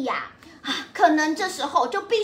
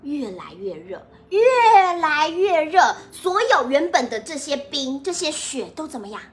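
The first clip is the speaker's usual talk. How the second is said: put-on reading to a toddler; 2 semitones lower than usual. Narrates picture book to children.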